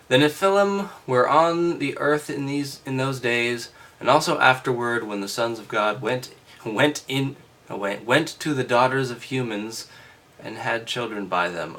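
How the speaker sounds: loud, formal reading voice; scripture reading. Acted. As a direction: read it out like a lesson.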